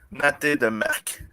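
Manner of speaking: "natte de merc" drawn out slowly as mock French; fake foreign language. Shown as a demonstration. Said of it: "He's just making, like, you know, mec".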